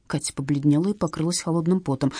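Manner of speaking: plain reading voice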